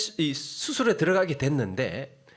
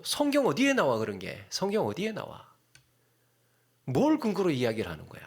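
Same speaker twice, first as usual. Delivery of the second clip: mock arguing. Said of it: "따지고 싶을 때가".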